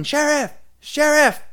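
high-pitched call for the sheriff; mimicked far-carrying holler; imitated yelling. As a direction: yell it across a football field. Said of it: "he's still yelling".

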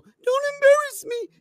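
high, slow, whiny mock; mocking whiny quote. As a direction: drag it out like a pleading boyfriend. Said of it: "How can you as a man say publicly".

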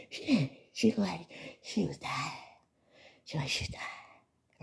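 soft mock gossip fading to a whisper. Fans gossip that she looked dying, whispering. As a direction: drop it to a secretive whisper.

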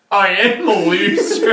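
high, laughing fake sob; laughing mock wail. Retelling crying to friends, high laughing wail. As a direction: wail it while cracking up. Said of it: "I started bawling, crying".

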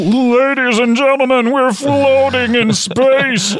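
big, slow spacey announcer. Pretend. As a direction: announce it slowly like a showman. Repeats announcer line, slower.

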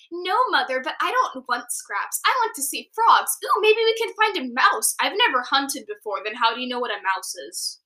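put-on bright kid kitten pleading with mother; young Sweet Pea. Voicing young cat Sweet Pea.

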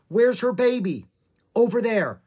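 high, loud and anxious; urgent exchange. A narrator's reading. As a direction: call it out with urgency. Urgent exchange during the chase.

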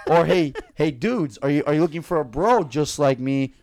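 loud improvised pitchman; punchy, loud dating-ad pitch; fake ad read. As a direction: hail the listeners like a mock commercial. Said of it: "do a fake ad on the spot".

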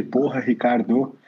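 a half-hearted echo of the father's yell; mild mock yell. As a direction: recall the shout softly and slowly instead of yelling it. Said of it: "Quando ele gritou aquele".

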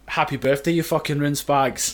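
recreated birthday message, lightly Scottish; cheeky greeting in a hint of Scottish; Scottish accent. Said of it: "you did in a Scottish accent".

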